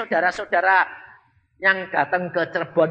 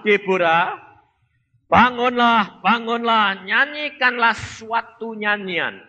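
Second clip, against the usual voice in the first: slow, solemn Bible reading; measured reading of Judges; scripture reading. Acted. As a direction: read the verses out with weight.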